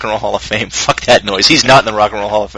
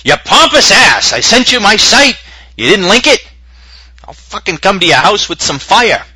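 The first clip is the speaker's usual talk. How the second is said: high, loud, slow mock rant; mock angry emailer; 9 semitones higher, 5 dB louder, slower than usual. Angry listener raging at the hosts, hammed-up high yell. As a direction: ham up a furious emailer. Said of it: "People write back a couple of days and say".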